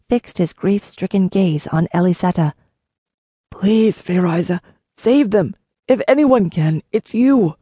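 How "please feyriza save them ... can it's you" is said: mild ragged plea from a grieving man. A narrator's reading. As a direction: plead for the impossible. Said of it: "Rowan's ragged plea".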